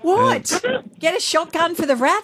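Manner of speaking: high, disbelieving protest; what, are you serious; incredulous. Real, not acted. Incredulous outburst on radio.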